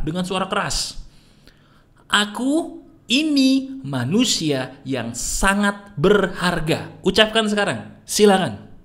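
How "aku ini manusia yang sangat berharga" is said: slow, deliberate declaration of worth; bold self-affirmation. Shown as a demonstration. Coach models a bold affirmation for the viewer. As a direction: say it like you fully believe it. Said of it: "ucapkan dengan suara lantang".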